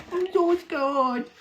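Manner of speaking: very high, slow, stretched "I'm so scared"; milk the fake terror to the max; hammed-up mock fear. Mocking the dox threat, exaggerated.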